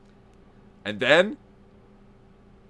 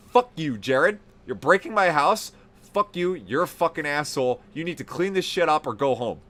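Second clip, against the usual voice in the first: movie tough guy. Retold or imitated. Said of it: "he did this like it was a movie".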